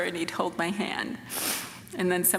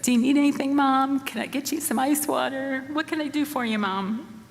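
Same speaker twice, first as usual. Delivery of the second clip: imitating her eleven-year-old, louder and higher; eager son's offer; 7 semitones higher, 3 dB louder than usual. Mother imitating her young son offering help, bright and louder. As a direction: play the eager boy rushing to help his mom.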